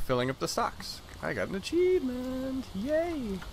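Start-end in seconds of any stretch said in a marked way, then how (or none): 1.2-3.4 excited. Real, not acted. Gets achievement in game.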